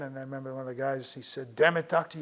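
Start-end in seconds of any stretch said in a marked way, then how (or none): 1.6-2.2 urgent plea. Retold or imitated. Stable hand urging the doctor.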